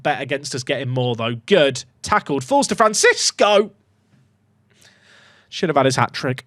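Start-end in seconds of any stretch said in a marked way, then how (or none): 5.5-6.4 voice crack. Real, not acted. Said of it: "that was a cringe voice crack".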